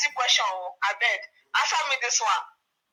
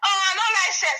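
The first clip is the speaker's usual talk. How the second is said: higher mocking girlish voice, a bit loud; mocking young girl; 5 semitones higher, 3 dB louder than usual. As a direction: parody a coy girl denying it. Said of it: "dey do like say".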